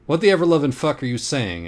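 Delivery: high, loud incredulous exclamation; baffled outburst. A narrator's reading. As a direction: blurt it out in disbelief. Anna reacts baffled.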